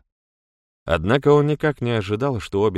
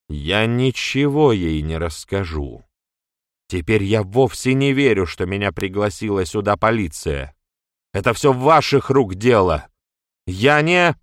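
angry accusation; 5 dB louder than usual. A narrator's reading. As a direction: hurl the blame at her. Мэдж в гневе обвиняет Китти. (гневное обвинение, всё громче)

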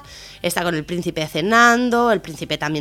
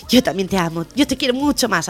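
softly hammed-up sweet talk; mushy lovey-dovey; 3 dB quieter than usual. Boyfriend to girlfriend before surgery, mushy lovey-dovey. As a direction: coo it like a sappy boyfriend, lightly mocking. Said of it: "así todo de pasteloso".

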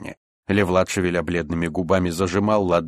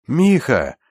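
louder, higher searching call; 7 semitones higher, 5 dB louder than usual. A narrator's reading. Рустам calls to his friend, calling out. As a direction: call a name across the dark. Comrade calls through the dark.

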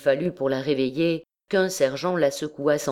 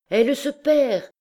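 sudden high outcry, much louder; alarmed shout, pitch jumping up high; cried out loud; 11 semitones higher, 5 dB louder than usual. A narrator's reading. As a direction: blurt it out over the courtroom. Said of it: "cria-t-il tout haut".

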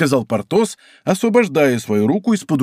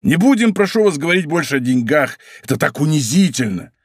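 lightly raised pleading woman's voice; prokuror's wife; 2 semitones higher than usual. Acted. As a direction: plead with the lover, a hint of hurt. (мягко поднятый голос обиженной жены прокурора)

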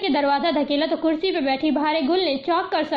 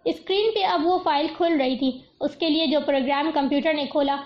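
plain reading voice

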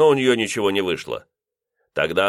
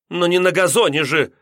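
higher, snide landlady jab; 10 semitones higher, 4 dB louder than usual. A narrator's reading. Landlady retorting sarcastically to the lodger, high. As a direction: snap back sarcastically. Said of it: "съязвила".

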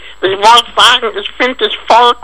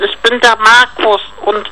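put-on child voice. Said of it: "Warum redest du so, so komisch?".

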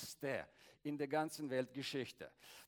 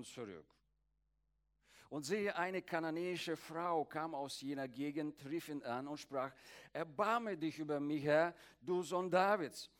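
scripture reading. Acted. Reads Matthew aloud.

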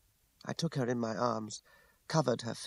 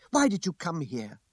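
higher-pitched scornful question; contemptuous; 6 semitones higher, 3 dB louder than usual. A narrator's reading. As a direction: ask it with open contempt. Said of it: "she asked contemptuously".

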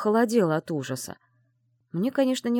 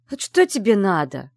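grumpy; 6 dB louder than usual. Acted. Woken, grumpy at intruder.

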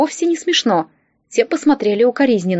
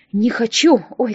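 plain reading voice

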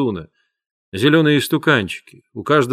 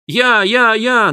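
much higher, louder eager cries; children shouting; 10 semitones higher, 5 dB louder, much slower than usual. A narrator's reading. Children clamour to fly to Mars, eager shouts. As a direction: clamour to be chosen. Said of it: "наперебой кричали дети".

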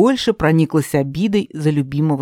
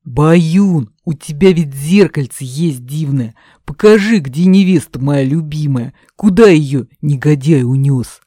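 a touch louder, earnest plea; pleading young tsarevich; 5 dB louder than usual. Acted. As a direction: plead with the magic cat. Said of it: "попросил кота Тимофей".

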